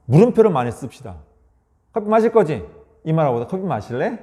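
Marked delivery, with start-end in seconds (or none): 1.9-2.6 higher, assuming question; mildly pushy coffee question; presumptive question. Shown as a demonstration. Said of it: "이 말이 얼마나 부드러워요". 3.5-4.2 softer, gentle invitation; gentle coffee question to spouse; soft offer. Shown as a demonstration. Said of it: "이 말이 얼마나 부드러워요".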